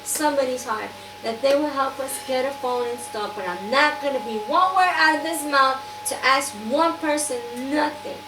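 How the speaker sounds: firm, emphatic plea to God; insistent retold prayer. Retelling her desperate prayer for a phone, firm and insistent. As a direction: demand a miracle, imitating your own prayer.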